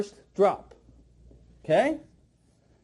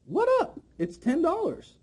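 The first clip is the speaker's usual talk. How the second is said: astonished customer; 7 semitones higher, slower than usual. Retold or imitated. Trainer voicing a customer's thoughts at the second drop, mock astonished. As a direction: imitate a stunned buyer, pitch climbing. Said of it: "And they're thinking".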